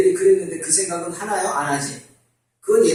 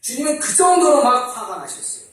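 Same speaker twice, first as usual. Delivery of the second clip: ordinary delivery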